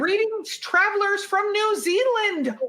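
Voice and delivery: put-on slow, hammy British accent greeting; a clumsy, pompous British accent; horrible British accent. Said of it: "I just did a horrible British accent".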